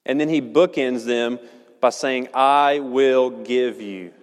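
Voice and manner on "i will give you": "I" drawn out and weighted, whole phrase very slow; slow, heavy emphasis on "I"; stress on I. Shown as a demonstration. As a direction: lean hard on "I" in "I will give you". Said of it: "The weight of the entire text is on that "I".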